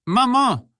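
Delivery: very high, loud wail for mother; desperate, piercing inward cry; frightened cry. A narrator's reading. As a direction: wail it in despair. Terrified soldier's inner cry for mother.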